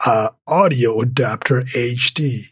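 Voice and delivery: nerdy product-name read in a tech nerd voice. Pretend. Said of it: "let me say this in my most tech nerd voice".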